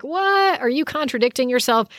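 sharp high What, then fast puzzled question; an incredulous What, quickly questioning; mock disbelief. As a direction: play the baffled reader catching a contradiction. Puzzled listener objecting to God.

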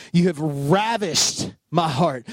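slow, tender reading of ravished. Shown as a demonstration. Pastor reading a second translation aloud, slow and tender. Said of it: "This one says".

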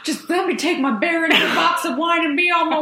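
fast, laughing mock whine; laughing mock plea. Friend teasing the teen's plea to the cop, laughing. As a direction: beg through laughter, teasing. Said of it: "friend mocks her plea".

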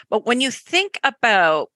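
"about" with a Canadian vowel, slipping out by accident; Canadian accent slip. Real, not acted. Host notices her Canadian accent slipping into "about". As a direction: let your Canadian "about" sneak in. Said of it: "there's my Canadian accent coming in".

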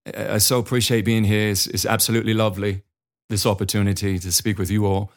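a light put-on British accent, polished and formal. Shown as a demonstration. Presenter greeting students and parents, light British accent. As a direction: open the talk like a proper British presenter, only lightly done. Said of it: "I try to start the presentation in a British accent".

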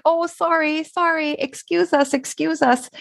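high, sing-song polite apologizing; polite couple. Retold or imitated. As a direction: chirp the sorries like a nice young couple. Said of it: "they were like".

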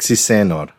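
"Senor" with a plain n, no ny; seh-NOR, not seh-NYOR; Italian Si Senor. Shown as a demonstration. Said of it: "There's no, like, Senor".

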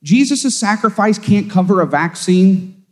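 high, slow mock disbelief; incredulous. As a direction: act stunned that anyone believes this. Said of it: "And I'm going".

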